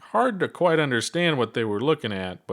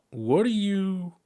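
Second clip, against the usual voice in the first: huffed; 10 semitones higher, slower than usual. Acted. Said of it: "she huffed".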